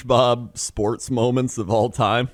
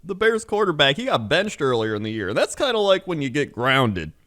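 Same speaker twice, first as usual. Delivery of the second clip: put-on high, bright-eyed kids' TV announcer; 7 semitones higher than usual. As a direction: sell it like a Nickelodeon host talking to kids. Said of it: "They're like".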